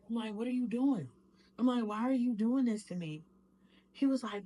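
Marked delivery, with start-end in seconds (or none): 0.3-1.1 higher, louder panicked question; retelling a desperate cry at her attacker; frantic plea. Retold or imitated. Begging attacker mid-beating. 1.8-3.2 higher, louder panicked question; retelling a desperate cry at her attacker; frantic plea. Retold or imitated. Begging attacker mid-beating.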